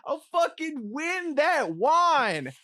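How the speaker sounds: gloating hype. Real, not acted. Gloating after winning.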